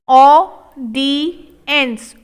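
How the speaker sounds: audience drawn out, falling at the end; slow model take. Shown as a demonstration. Teacher modelling audience slowly for the class. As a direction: linger over each sound. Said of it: "slow model take".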